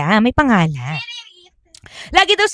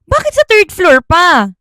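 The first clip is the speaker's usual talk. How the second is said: annoyed question; 8 semitones higher, 4 dB louder than usual. Acted. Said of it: "Sabi niya naman daw".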